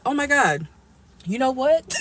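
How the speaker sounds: a broke friend whooping it up at the bar, mock excited; mock party excitement. Friend at the bar showing off, hammed-up excitement.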